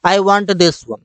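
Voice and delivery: stretched out very slowly; slow clear English. Shown as a demonstration. Teacher giving the English phrase slowly. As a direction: drill it word by word. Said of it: "मुझे ये वाला चाहिए".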